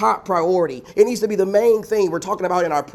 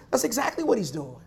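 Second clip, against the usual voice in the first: soft, lowered-volume answer; hushed affirmation; 3 semitones higher, 7 dB quieter than usual. Real, not acted. Preacher answers his brothers and sisters, hushed. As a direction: drop the volume to confide the answer. Answers own question, then repeats it.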